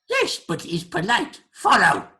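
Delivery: high, loud creature command; insistent creature. Acted. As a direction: urge the guest along as a creature. Creature insists the guest follows.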